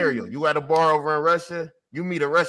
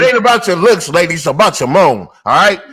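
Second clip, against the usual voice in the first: loud mock lecture to the ladies; 10 dB louder than usual. Loud mock sermon to women listeners about moaning. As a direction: preach it at them like a coach.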